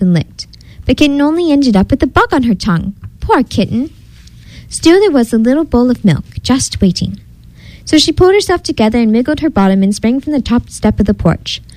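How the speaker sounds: lively storybook reading, pitch lifting at phrase starts; animated bedtime-story narrator; story narration. A narrator's reading. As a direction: read a fairy tale to young listeners. Reads picture book aloud.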